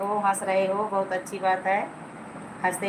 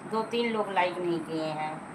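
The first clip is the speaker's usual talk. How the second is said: repeated lower and softer, trailing off; quieter repeat; 2 semitones lower, 6 dB quieter than usual. Real, not acted. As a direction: say it again, half to yourself. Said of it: "मैं बार बार चिल्लाती रहती हूँ।". (धीमे से दोहराना)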